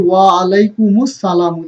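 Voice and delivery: আলাইকুমুস সালামু linked with a "u" after the "m"; linked demo, আলাইকুমুস flowing straight into সালামু; joined reading. Shown as a demonstration. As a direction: run ওয়া আলাইকুমুস সালামু together as one phrase. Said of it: "এই দুইটাকে যদি আমরা মিলিয়ে পড়ি".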